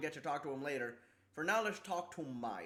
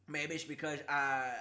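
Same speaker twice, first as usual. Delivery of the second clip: ordinary delivery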